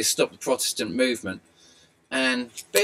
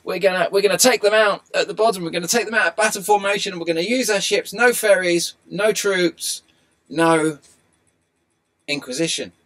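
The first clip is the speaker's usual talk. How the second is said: louder, higher rallying call to the fleet; a hint of Drake rousing his fleet before the Armada; Francis Drake rallying; 7 semitones higher, 7 dB louder than usual. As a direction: rouse the fleet like a commander going into battle. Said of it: "Francis Drake ... going".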